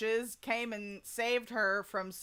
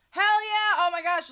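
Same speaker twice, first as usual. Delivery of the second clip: high, loud "hell yeah"; excited cheer; 8 semitones higher, 10 dB louder than usual. Real, not acted. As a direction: celebrate with them. Cheering viewer's good news.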